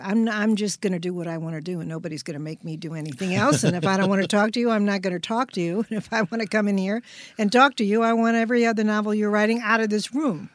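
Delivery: bratty prince. Acted. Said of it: "the Brat Prince personality".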